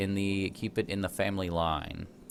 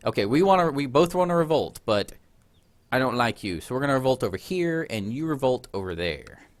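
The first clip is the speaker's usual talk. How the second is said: higher, louder mock squabbling rebel voice; petty rebels; 4 semitones higher, 4 dB louder than usual. Gamer voicing rebels who refuse to revolt together, higher mock petty tone. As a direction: play two rebel groups sulking at each other. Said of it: "We're like".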